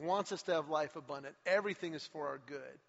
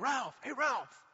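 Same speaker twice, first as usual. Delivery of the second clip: higher, louder call across a lot; 8 semitones higher, 4 dB louder, slower than usual. Retold or imitated. Nicklaus calling Ralph across the parking lot, loud call. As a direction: shout the name to catch him leaving.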